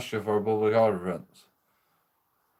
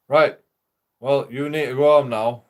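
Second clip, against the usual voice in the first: louder, commanding police officer; stern order; 2 semitones higher, 6 dB louder than usual. Retold or imitated. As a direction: bark the order like a cop on duty. Police officer ordering him home.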